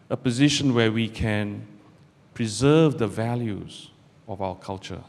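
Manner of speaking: speaking up for the room; projecting the speech after the audience complaint. Real, not acted. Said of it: "can't hear your sexy voice".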